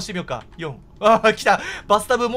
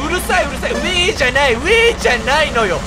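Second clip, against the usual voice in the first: loud exasperated cry; 4 semitones higher, 8 dB louder than usual. Real, not acted. Reacting to chaotic game.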